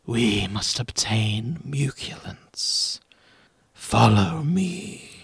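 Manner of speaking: mysterious voice. Acted. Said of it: "A voice says".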